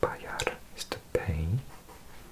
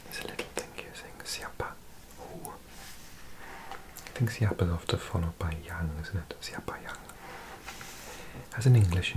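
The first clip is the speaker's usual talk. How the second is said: ASMR whisper. Real, not acted. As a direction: whisper every word as if close to the mic. Whispered ASMR language lesson.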